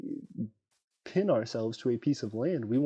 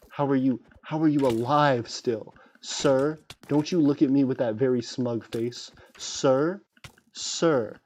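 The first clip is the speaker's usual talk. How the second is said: mock gentleman; 5 dB louder than usual. Mock gentleman dueling an NPC.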